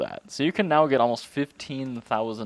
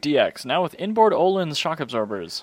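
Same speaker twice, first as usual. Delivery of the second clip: lightly voiced ad announcer, higher pitched; mock car advert; 6 semitones higher, 4 dB louder than usual. Pitching the new Civic to buyers, mock car advert. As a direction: pitch it like a new-model commercial.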